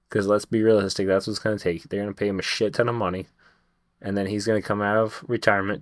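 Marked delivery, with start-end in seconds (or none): 1.8-3.3 rattled off fast, ton stressed; quick insistent restatement with "ton" hit hard; fast emphatic repeat. Shown as a demonstration.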